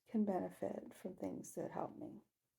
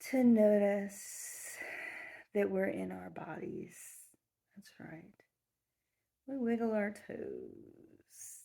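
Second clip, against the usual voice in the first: guided meditation. Acted. Guide leading listeners to connect to the earth, soothing meditation voice. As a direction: lull them gently, letting phrases trail into near-whispers.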